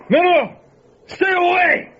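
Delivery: screaming high in pure terror; terrified scream. Acted. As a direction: beg the thing to stay back. Gunman attacked by the monster.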